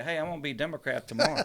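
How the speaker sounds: quick, laughing mock announcement; tossing off a joke at dinner through laughter; laughing quote. Friend joking about switching parties, laughing.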